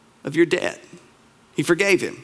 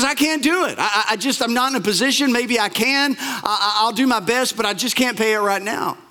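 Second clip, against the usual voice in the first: nervous pleading; 3 semitones higher than usual. Retold or imitated. Poor debtor pleads he can't pay.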